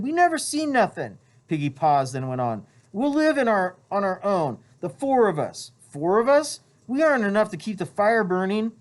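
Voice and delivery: put-on high, urgent boy voice; Piggy's voice. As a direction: whisper a secret plan urgently. Piggy and Ralph secret talk.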